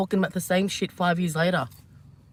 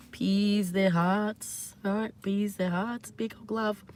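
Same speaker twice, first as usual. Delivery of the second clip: soft and tender; 5 dB quieter, much slower than usual. Real, not acted. Tender, softly offering love.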